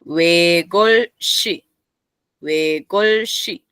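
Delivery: huegolshi drawn out slowly, with tensed sh; tense S. Shown as a demonstration. Teacher modelling linked S for students, huegolshi with tense S. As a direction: stretch huegolshi syllable by syllable, pressing the shi. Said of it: "la S cuando da sonido enlace se vuelve tensa".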